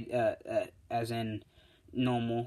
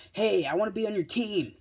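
high, loud, eager call; eager request; 10 semitones higher, 5 dB louder than usual. Retold or imitated. Kirishima walking up to Bakugo, loud eager request. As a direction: pipe up high and loud, keen to join.

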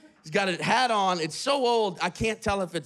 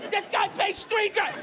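much higher, slowed, laughing in disbelief; slower laughing shout; 11 semitones higher than usual. Retold or imitated. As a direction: drag it out, cracking up at the price. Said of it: "He's just shouting it".

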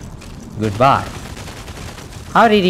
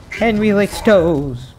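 slow teasing taunt; 5 semitones higher, slower than usual. Real, not acted. Teasing chant at player.

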